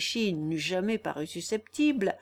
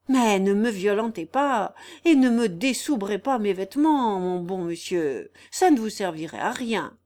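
lightly voiced wary old vagabond, a little louder; protesting vagabond; 5 dB louder than usual. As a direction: plead to be left alone, lightly in character.

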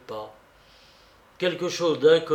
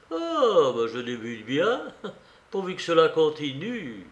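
sardonic; 2 semitones higher than usual. Acted. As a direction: grumble ironically to yourself. New priest's sardonic thought at funeral.

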